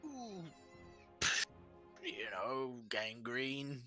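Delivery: high, sheepish giant; a dim giant admitting an awkward truth. Acted.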